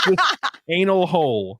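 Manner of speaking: "anal hole" drawn out slowly through laughter; laughing, savoring anal hole. Real, not acted. Giggling to a friend over the phrase "anal hole", drawn out slow. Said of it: "the phrase anal hole sounds so funny".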